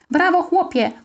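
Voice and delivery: puffed-out praise, pitched high; panting. Acted. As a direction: praise the boy while out of breath. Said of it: "wysapał tata". (zdyszany, z zadyszką)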